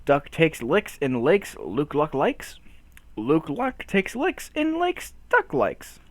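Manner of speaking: slow, deliberate word by word; slow, careful twister. Pretend. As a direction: pick your way through each word. Picking carefully through a tongue twister.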